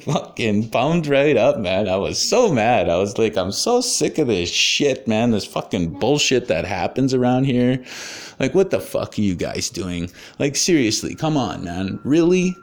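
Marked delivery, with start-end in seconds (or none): 3.4-12.6 worked-up rant, rising to a high final jab; retold angry barking. Man telling off a counselor at his office, angry barking. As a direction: re-enact being fed up and pumped up. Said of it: "I start barking at him".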